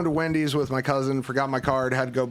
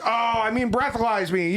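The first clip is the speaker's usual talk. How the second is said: higher, hurried mock realisation; sudden realisation; 7 semitones higher than usual. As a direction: catch yourself and quickly correct it. Realising what he said.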